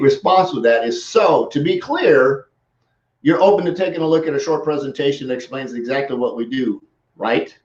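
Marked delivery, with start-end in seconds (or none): 1.0-2.5 very slow "So, to be clear" set apart with a pause; slow, deliberate. Shown as a demonstration. Coach answering a goofball's post, slow and deliberate. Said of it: "See, that's my". 3.2-7.6 "right?" said as a statement; firm statement. Shown as a demonstration. Coach replying to a rambling post, firmly. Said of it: "Comma, right? Explanation point".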